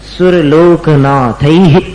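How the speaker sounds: सुरलोकनाथैः slow, final 'aih' breathed out; visarga release. Shown as a demonstration. Teacher demonstrating visarga to class, slow release. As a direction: release the voice on the last syllable of सुरलोकनाथैः. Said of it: "यहां पर आवाज को विसर्जित करना है".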